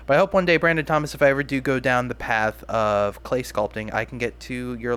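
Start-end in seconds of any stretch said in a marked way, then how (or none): 0.1-2.6 higher and louder, eager; excited hope. Real, not acted. Vlogger calling out to the sculptor, eager and louder. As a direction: burst out with real eagerness.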